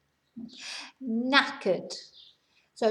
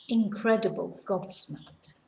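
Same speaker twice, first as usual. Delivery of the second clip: gasping amazement; 3 semitones lower than usual. Shown as a demonstration. Gasp then hushed amazement.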